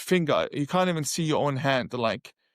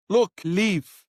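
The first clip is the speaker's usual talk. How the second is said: sharp, louder order to leave; retold, mildly raised angry order; 4 semitones higher, 4 dB louder than usual. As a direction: bark it at him, losing patience. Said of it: "I got really angry".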